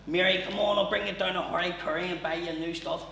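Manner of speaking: lightly voiced pleading dad at the door; begging dad. Drunk dad begging his wife through the door, lightly pleading. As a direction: wheedle to be let back in.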